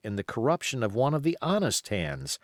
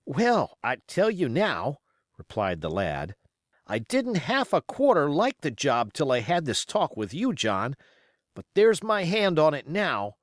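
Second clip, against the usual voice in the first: put-on higher, eager young seaman won over; a lad sealing the deal, higher and keen; young sailor Dick; 3 semitones higher than usual.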